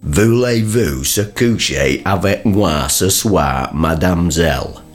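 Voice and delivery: dad's show-off French. Acted. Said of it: "You say some French, Dad".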